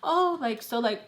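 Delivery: fish for gossip sweetly; imitating a nosy girl; nosy fake interest. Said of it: "trying to, like".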